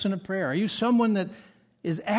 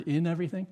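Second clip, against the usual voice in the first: "in everything" with the weight on "in"; stress on in everything. Shown as a demonstration. Preacher to congregation, pressing "in everything". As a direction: lean on "in" of "in everything". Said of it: "Notice that word".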